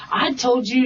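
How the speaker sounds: imitating a pushy, insistent woman; mildly bossy retold scolding. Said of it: "talking to me like that".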